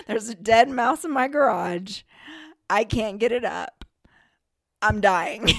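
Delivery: hammed-up panic between laughs; mock panic. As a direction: wail it in comic distress. Acting out her panicked text.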